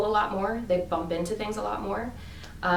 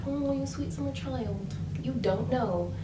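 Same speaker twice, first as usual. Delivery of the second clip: mock condescension; 4 semitones higher, 4 dB quieter than usual. Mocking condescending older people.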